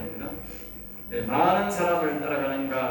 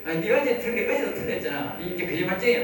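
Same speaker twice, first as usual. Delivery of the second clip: mock accusing; 4 semitones higher than usual. Mocking accuser voiced in sermon.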